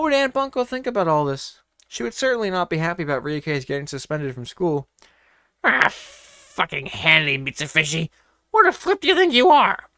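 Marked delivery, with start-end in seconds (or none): 5.6-9.9 loud angry yell; furious shouting outburst. A narrator's reading. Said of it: "Ryuke shouted out loud".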